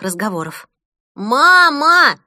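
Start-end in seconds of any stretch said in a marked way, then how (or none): 1.1-2.2 put-on loud high child's call; a little boy shouting for mum. Boy in the bath shouting for mum, loud high call.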